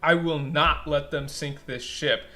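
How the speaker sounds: firm, emphatic vow with punched key words; making a stand. Acted. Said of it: "making a stand".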